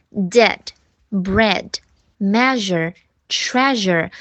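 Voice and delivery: word list with a short open eh; separated model reading, short eh; short E drill. Shown as a demonstration. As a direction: punch out each word with a crisp eh. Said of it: "有的时候读哎".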